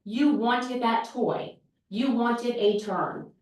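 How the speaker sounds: put-on slow, patient naming of the child's wish; acknowledging feelings. Shown as a demonstration. Teacher acknowledging a disappointed child, slow and gentle. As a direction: spell it out slowly and kindly. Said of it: "name, and acknowledge".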